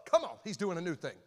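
hyped church quote. Retold or imitated. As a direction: imitate fired-up churchgoers. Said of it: "We'd be like".

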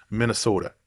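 lightly mock the Minnesota accent, Minnesota said the local way; horrible Minnesota accent. Vlogger hamming up a self-mocking Minnesota accent. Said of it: "That was my horrible Minnesota accent".

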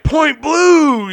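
loud high shout of a ping pong call; line judge calling the point. Retold or imitated. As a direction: yell the call across the garage. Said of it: "So I'm like".

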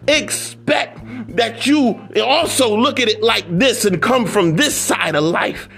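emphatic preacher's cadence on each repeated phrase; rhythmic, exhorting sermon delivery; motivational preaching. Real, not acted. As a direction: preach it in insistent, building repetitions.

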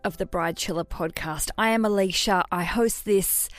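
put-on amateur-hour American accent with a folksy howdy; shoddy American accent. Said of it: "That was a very shoddy amateur hour American accent".

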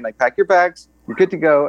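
high, upbeat mock officer waving them through; cheery officer send-off. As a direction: pitch it up, breezy and friendly. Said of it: "He's like".

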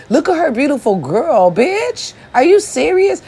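high incredulous squeal; mock outrage. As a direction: shriek in disbelief, half joking. Mock outrage at Brat's wife.

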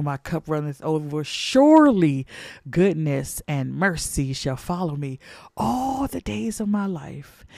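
rolling preacher's recitation of Psalm 23. Acted. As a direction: recite it with rising pulpit fervor.

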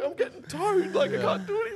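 high, loud whiny protest; mock driver reply. Driver pleads he is towed, high loud protest. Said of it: "he's like".

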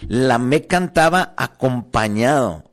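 "cantaba" slowed with a long final vowel; stress on cantaba. Shown as a demonstration. Preacher making the church hear "cantaba" stretched slowly. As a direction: linger on "cantaba", drawn out. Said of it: "óyelo".

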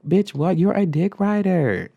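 loud, high, drawn-out insult; real heated outburst at an absent coworker; getting mad. Real, not acted. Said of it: "I'm getting mad".

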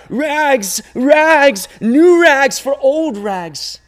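loud, high call, drawn out slowly; crying out. A narrator's reading. Rag man calling through town, loud drawn-out cry. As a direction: call your wares to the whole street. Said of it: "he cried out".

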